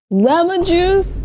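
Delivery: high, slow rising disbelief; incredulous. Real, not acted. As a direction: stretch out lemon juice in disbelief.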